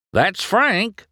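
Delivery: high, urgent cry; excited high-pitched alarm; shouted warning. A narrator's reading. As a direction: call out the danger to a friend. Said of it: "Mater shouted".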